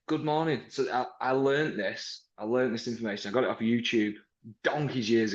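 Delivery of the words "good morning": brisk friendly greeting; good morning greeting. Shown as a demonstration. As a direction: greet the customer cheerfully. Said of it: "So I'd walk out and I'd say".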